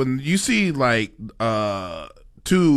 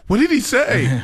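curious asker; 10 semitones higher, slower than usual. Retold or imitated. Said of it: "They'd be like".

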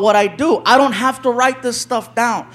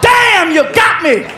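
high, drawn-out cry of realization; caught by surprise; 8 semitones higher, much slower than usual. Acted. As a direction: exclaim it like the victim of a prank. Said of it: "and he's like".

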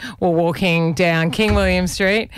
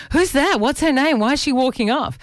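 higher, rapid-sounding imitation of his questions; retold rock star questioning; 7 semitones higher than usual. Rock star asking about the cousin who walked away, retold questioning. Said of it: "And he said to me".

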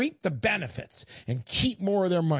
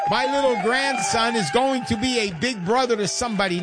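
excited news; 4 semitones higher, 4 dB louder than usual. Real, not acted. Joyful grandpa news announcement.

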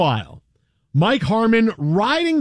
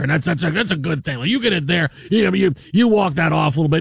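lightly voiced rambling football commentator impression; John Madden. Host riffs on getting hit by a pitch, loose commentator impression. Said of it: "That was my Madden impression".

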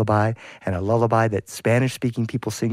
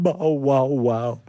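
mournful dog bark, sliding downward; howling dog; slower than usual. Acted. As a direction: bark it sadly, falling in pitch. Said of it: "And the dog said".

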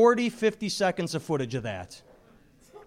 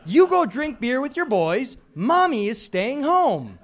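taunting mom; 4 semitones higher than usual. Retold or imitated. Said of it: "you just say".

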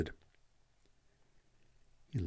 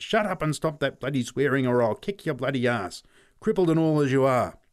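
loud, higher threatening rant; angry shout; 5 semitones higher, 6 dB louder than usual. A narrator's reading. Pat threatens the crippled boy, shouting angrily. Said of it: "he shouted".

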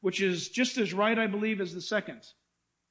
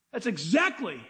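ordinary delivery

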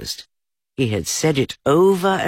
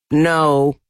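louder, higher put-on voice; higher, louder put-on rabbit voice; disguised voice; 6 semitones higher, 6 dB louder than usual. A narrator's reading. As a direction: disguise your voice so you sound like someone else. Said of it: "in a different sort of voice this time".

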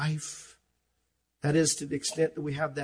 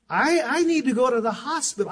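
calm understated plea; 7 semitones higher, 5 dB louder than usual. Retold or imitated. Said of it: "I said it just like that".

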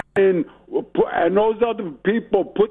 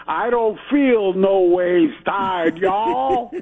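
slow, mocking put-on Southern drawl; mocking Hillary Clinton's put-on Southern accent; slower than usual. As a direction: imitate a politician's phony Southern accent. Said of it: "she put on".

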